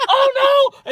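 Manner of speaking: high, loud hammed-up alarm; mock flustered cop. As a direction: pretend shock, slowing at the name. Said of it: "They're probably like".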